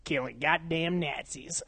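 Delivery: slow, badly faked movie-star drawl; Brad Pitt. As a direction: attempt a film character's accent, slowly and badly. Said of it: "That was the worst Brad Pitt impression ever".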